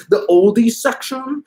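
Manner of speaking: high, slow incredulous question; offended surprise. Retold or imitated. A singer hearing his records are oldies, slow incredulous. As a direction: ask it slow, stung by the word. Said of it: "He's like".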